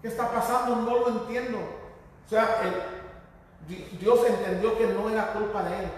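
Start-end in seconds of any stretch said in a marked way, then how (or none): 0.0-1.6 higher, pleading question to God; mildly acted boy's appeal; bewildered child praying. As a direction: plead upward in confusion. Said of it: "imagino que hablaba y le decía".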